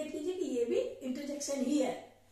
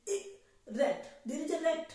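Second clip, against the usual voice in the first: mock fright; 4 semitones higher, much slower than usual. Shown as a demonstration. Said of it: "इस तरह से बोलते हैं".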